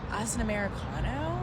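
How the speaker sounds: mock barista, disbelieving rise on "Americano"; incredulous echo. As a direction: echo the order back as if it were absurd. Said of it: "I'm met with this".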